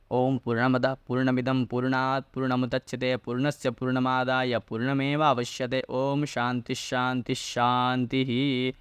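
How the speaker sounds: steady, even-pitched mantra recital, final words drawn out; Sanskrit prayer recitation. Acted. Teacher closing the lesson with a peace mantra, measured Sanskrit prayer recitation.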